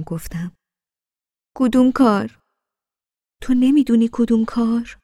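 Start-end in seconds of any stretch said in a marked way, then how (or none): 1.6-5.0 higher, louder indignant retort; frowning indignation. A narrator's reading. Frowning wife challenging her husband, indignant and louder. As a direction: throw his words back at him, offended. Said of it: "اخمهایم را در هم کرده بودم".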